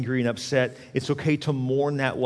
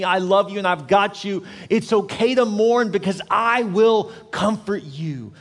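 raised, insistent encouragement building to a promise; fervent preaching; 6 semitones higher, 4 dB louder than usual. Real, not acted. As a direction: press the comfort home with mounting conviction. Preaches with rising fervour.

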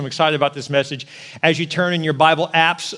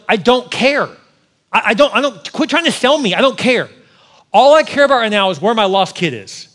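exasperated, raised voice; annoyed refusal; 4 semitones higher, 3 dB louder than usual. Retold or imitated. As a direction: brush off the salesman, higher and louder. Father snapping at pushy salesman.

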